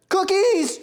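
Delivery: high, loud one-word yell; triumphant shout. Real, not acted. Baker finishing the last roll, shouting in triumph. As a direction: belt it out suddenly.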